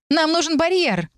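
high urgent plea, stress on барьер; urgent shout. A narrator's reading. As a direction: shout it over the noise of battle. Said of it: "выкрикнула некромантка". (высокий срочный крик с ударением на «барьер»)

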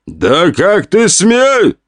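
slow, high outraged cry; outraged villain. Acted. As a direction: draw it out in outrage. Enraged villain.

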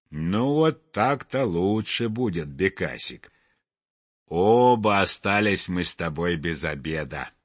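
low, resigned reassurance; consoling chimney sweep. Acted. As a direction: console a little friend in a low voice.

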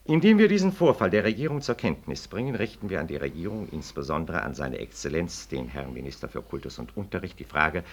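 measured, official reading of a document; formal reading aloud. Acted. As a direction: read the petition out like an official notice. Continues reading interpellation.

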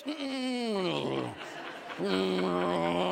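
long, strained closed-mouth hum; acted nervous "mmm" noise; tense humming. Acting his panic driving over bridge.

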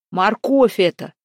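loud guessing shout; old king shouting his guess. A narrator's reading. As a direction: call the answer out loud. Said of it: "крикнул Салтан".

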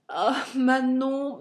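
«Ah, Manon» soupiré, lent et plus haut; avec un soupir. Acted. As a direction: laisser échapper le nom dans un long soupir. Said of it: "repris-je avec un soupir". (amant trahi qui soupire le nom de Manon)

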